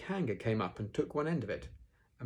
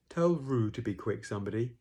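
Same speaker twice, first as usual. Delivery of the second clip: Eeyore; 3 semitones higher, 4 dB louder than usual. Acted. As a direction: complain it wearily, less hurried. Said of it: "Eeyore saying that".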